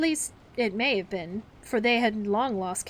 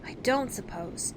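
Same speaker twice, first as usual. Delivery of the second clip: said differently; 3 semitones higher, slower than usual. Acted. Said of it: "Toodles said differently".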